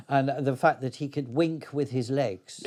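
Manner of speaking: chuckling through the words; laughing. Real, not acted. Actor recalling Fezziwig's winking legs to the interviewer, laughing. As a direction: let a laugh bubble up as you say it.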